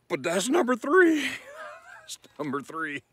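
laughing through the words. Real, not acted. Vlogger laughing about spaghetti ice. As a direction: giggle it out, can't stop.

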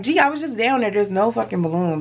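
snippy, annoyed retort; the sassy answer she almost gave; old attitude. Retold or imitated. Holding back an annoyed retort to her friend, snippy. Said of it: "get your old attitude".

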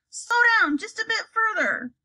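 pressing request from the carriage; urgent. Acted. Urging the driver in the carriage.

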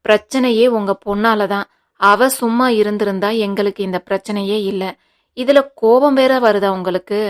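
a touch of irritated outburst; mildly heated, blaming retort; snapping angrily. Acted. Guna blaming his mother-in-law, understated angry outburst. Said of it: "எரிந்து விழுந்தான்".

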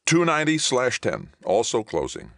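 very high start, stepping down; urgent callout. Acted. Navigator gives second hostile's bearing, urgent. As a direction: rattle off the alert high and urgent. Navigator calls out closing enemy ship.

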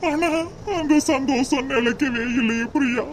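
sobbing out her name over and over; broken-hearted calls to Priya; tearful longing. Acted. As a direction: cry for her like she's slipping away. Lover pining for lost Priya.

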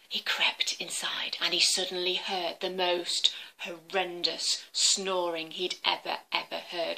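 whispered storytelling; whispering. A narrator's reading. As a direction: whisper as if sneaking in. Creeping into the cave.

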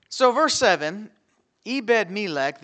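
booming verse announcement; loud announcing. Real, not acted. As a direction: call out the verse loudly. Preacher booms verse intro.

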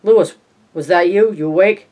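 wife checking whether her husband is awake; calling up the stairs. A narrator's reading. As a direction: call up from downstairs to check on him. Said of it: "Rachel called up again".

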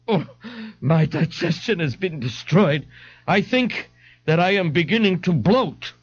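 high, fussy moaning; whiny complaint. Acted. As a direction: moan about the stomach. Ignatius complaining.

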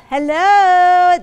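high, loud, sung-out hello; sister's bright call to come eat; cheery sister greeting. Retold or imitated. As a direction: chirp it like a happy sister calling. Sister calls about dinner.

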